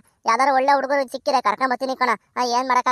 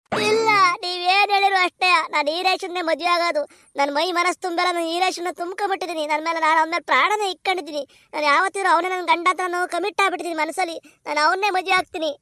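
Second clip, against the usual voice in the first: put-on higher, stubborn young girl's voice; a lovesick daughter refusing to give in; girl's voice, set on her choice; voiced daughter; 4 semitones higher than usual.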